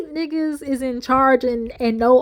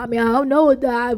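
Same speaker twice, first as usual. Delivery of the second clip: mocking Kirk. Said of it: "now when you sit there talking about".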